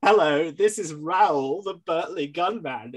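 mock flat, matter-of-fact caller; bland voice. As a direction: read it like a dull phone call. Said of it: "in this very bland voice".

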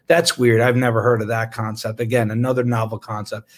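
low-pitched, dry mock puzzlement; deadpan sarcasm. Doctor mocking reminders about consent and approval, deadpan sarcastic. Mocks the letter's obvious reminders.

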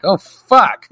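high, loud startled curse; mock dismay. Onlookers watching a man dragged off, alarmed. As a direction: blurt it in alarm.

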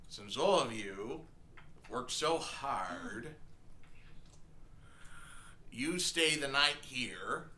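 slow, deliberate shopkeeper voice; measured, unhurried tavern keeper; slow innkeeper voice. Acted. GM voices innkeeper NPC at length.

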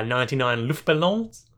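a faint French accent on "ninety-nine Luftballons". Real, not acted. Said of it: "I said that with a French accent".

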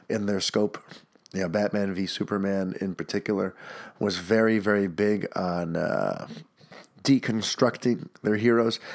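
blocked nose, congested voice; talking with a stuffy nose; stuffed-up nose. Real, not acted. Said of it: "I'm all stuffed up".

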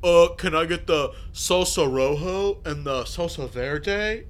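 a put-on, snooty voice rolling the Spanish names; mock snobby order. Customer mocking a show-off order at the taco counter, snooty. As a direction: play the pretentious customer showing off. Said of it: "be an asshole to be like".

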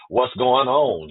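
slow, faux-innocent question; mock-clueless asking what's going on; playing dumb. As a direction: act like you have no clue, drawn out. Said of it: "how you act stupid when you ask".

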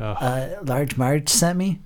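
slow, nervous Pee-wee question. Retold or imitated. Fan quoting the trucker scene, slow Pee-wee voice. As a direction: drawl it out like a scared Pee-wee. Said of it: "Your Pee-wee voice is so good".

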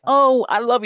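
high, loud lovestruck gush; hammed-up moan of love; mock swooning Anakin. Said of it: "Anakin's like".

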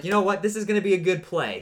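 a touch of cocky certainty; confident self-talk. Retold or imitated. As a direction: sell the moment you were sure it would work. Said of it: "And I was like".

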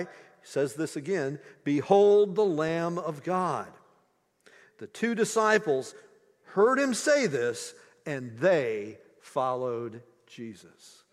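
measured, earnest Bible reading; scripture reading. Acted. Preacher reading the Gospel to his congregation, solemn reading.

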